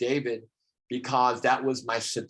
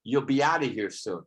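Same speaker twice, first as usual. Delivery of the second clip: lightly voiced comedian impression; a hint of mock comic heckling; Larry David. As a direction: imitate a comedian, opening on a squawked "Eh". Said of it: "again, Larry David goes".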